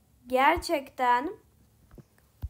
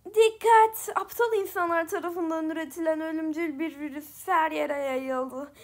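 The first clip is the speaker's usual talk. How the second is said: bored, evil villain announcing doom; 2 semitones higher than usual. Acted. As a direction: sound bored and wicked. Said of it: "daha bir sıkılmış ve kötü bir ses kullanıyorum".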